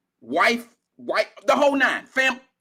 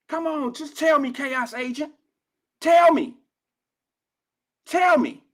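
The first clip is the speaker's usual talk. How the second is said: real challenge to the chat troll, shouted; demanding shout; 5 semitones higher than usual. Real, not acted. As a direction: yell it at the caller to make him answer. Demanding the troll answer him.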